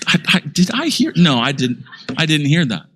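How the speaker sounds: high, startled double-take; a light comic double take; mock disbelief. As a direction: act like your ears lied to you. Preacher reacts in disbelief.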